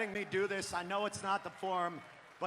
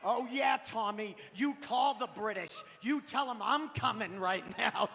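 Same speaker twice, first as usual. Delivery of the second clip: Boston wife; 3 dB louder than usual. Retold or imitated. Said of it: "hear her in the middle of it go".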